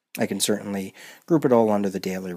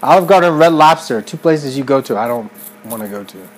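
loud, high complaining rant; 4 semitones higher, 11 dB louder than usual. Real, not acted. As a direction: rant it out loudly. Ranting against chain restaurants.

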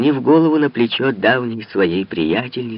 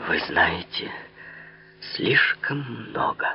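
hushed, dark warning; muffled low voice; 2 semitones lower, 6 dB quieter than usual. A narrator's reading. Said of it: "произнесла она глухим голосом". (глухим голосом)

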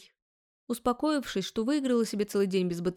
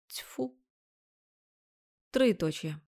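ordinary delivery

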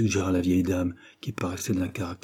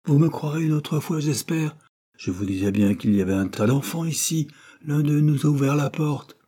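higher-pitched I-told-you-so; triumphant; 7 semitones higher than usual. A narrator's reading. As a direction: crow mildly at being proved right. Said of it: "d'un ton triomphant".

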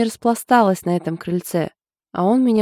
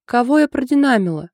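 frowning question; 7 semitones higher, 5 dB louder than usual. A narrator's reading. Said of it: "нахмурилась подруга".

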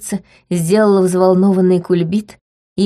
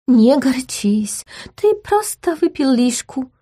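calm him gently; tender duchess; soothing; 6 semitones higher than usual. A narrator's reading. Gloria soothes the prince.

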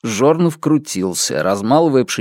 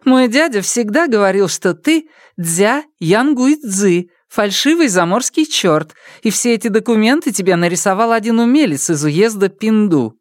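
higher, teasing peasant mother; a lively village mother needling her old friend; mother's voice; 10 semitones higher than usual. Acted. Mother teasing the pastor about his forged papers, higher and lively.

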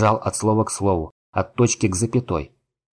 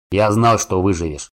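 cheerful dwarf voice. Acted. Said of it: "весело выдал он".

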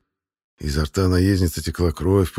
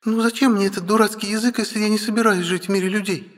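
heated; 14 semitones higher, faster than usual. Acted. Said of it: "запальчиво возразила Ая".

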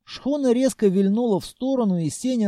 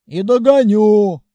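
threat; 3 semitones higher, 9 dB louder than usual. Acted. Groom threatens back.

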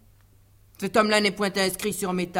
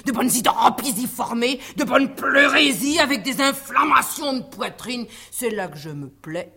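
haughty aristocratic french; 4 dB louder than usual. Acted. Disguised maid plays a pompous doctor.

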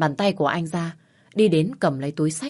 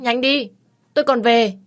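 higher, louder insisting; urgent demand; 7 semitones higher, 7 dB louder than usual. Acted. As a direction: demand it now, exasperated. Wife demanding to be put down.

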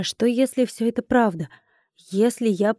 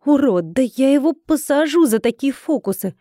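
higher-pitched angry grumble; indignant outburst; 3 semitones higher than usual. Acted. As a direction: curse him with indignation. Ругает обидчика, грозит посадить. (возмущённая ругань)

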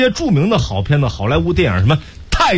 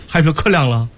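Henan dialect Jack. Acted. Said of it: "我来模仿一下".

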